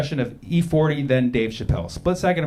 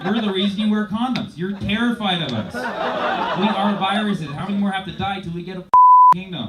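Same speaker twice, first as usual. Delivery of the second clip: mock angry viruses; 2 semitones higher, 4 dB louder than usual. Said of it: "viruses are a little bit pissed".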